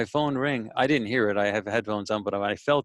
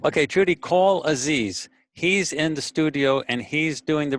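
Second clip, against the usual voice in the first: yelling across the room; 4 semitones higher, 3 dB louder than usual. Real, not acted. Instructing Trudy from afar.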